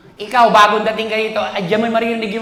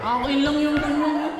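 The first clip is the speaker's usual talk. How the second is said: put-on slow, softer clingy boyfriend; boyfriend baby talk; 4 semitones higher, 5 dB quieter than usual. Boyfriend cooing over the phone, slow and soft. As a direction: drag the words out lovingly. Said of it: "siya ang gaganon sa'yo".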